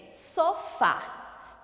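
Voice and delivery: "sofá" said slowly, weight on final "fá"; measured "sofá", split to show the stressed "fá". Shown as a demonstration. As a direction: lean on the last syllable of "sofá". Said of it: "Qual é a sílaba tônica?".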